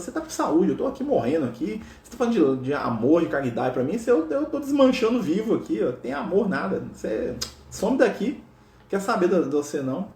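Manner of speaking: mildly indignant retold protest, pitch jumping up; indignant rebuff. Sick leper sending Francis away, mock indignant. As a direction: brush off the comforter, acted lightly.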